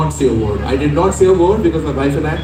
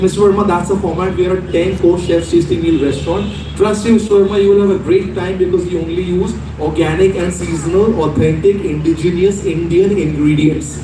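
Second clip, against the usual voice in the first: lightly posh, smooth salesman pitch; posh pacifying. Retold or imitated. The manager sells the menu to the doubting customer, lightly posh. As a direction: reassure him he'll love it. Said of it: "pacifying me in posh English".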